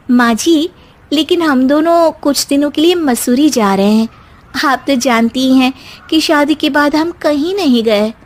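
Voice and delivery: lightly voiced young bride, polite and calm; a hint of a sweet daughter-in-law explaining to her mother-in-law; young wife Simmi. (हल्की सी आवाज़ में शांत बहू)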